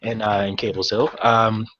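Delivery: flustered, tripping over the words; an anxious man rushing to apologise; lightly voiced nervous dockmaster; stumbling over himself. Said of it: "he's, like, stumbling over himself".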